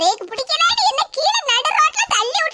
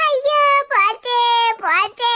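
slow, drawn-out wail; mock lament; 3 semitones lower, 3 dB louder, slower than usual. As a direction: moan it out slowly, hammed-up grief. Lying in road lamenting.

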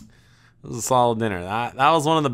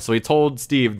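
usual speaking voice

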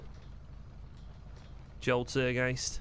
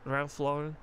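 put-on light Scouse accent as the character Joel; easygoing Liverpool lad in a Scouse voice; 4 dB quieter than usual. Joel chatting with Cyrus, relaxed Scouse accent.

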